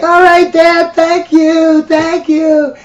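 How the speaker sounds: put-on high, sing-song kid voice; little kid. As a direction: gush thanks like an excited little boy. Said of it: "the little kid is like".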